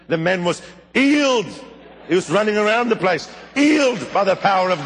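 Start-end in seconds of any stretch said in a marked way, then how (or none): 0.9-1.5 imitated English accent, h dropped, pitched high; clipped English accent. Preacher echoes the healer's word, clipped English accent. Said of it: "in that clipped English accent". 3.5-4.0 lightly imitated English accent, h dropped; clipped English accent. Preacher echoes the healer's word, clipped English accent. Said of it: "in that clipped English accent".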